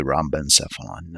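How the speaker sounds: rhombencephalon begun with "ram-ben"; checked pronunciation. Shown as a demonstration. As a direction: repeat the looked-up rhombencephalon, "RAM-ben-SEF-a-lon". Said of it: "it's pronounced the rhombencephalon".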